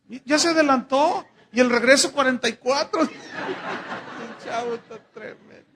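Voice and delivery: risa real mientras habla; riendo. Real, not acted. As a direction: se ríe del niño, primero fuerte, luego lento. Bromea con un niño del público. (riendo de verdad con el público)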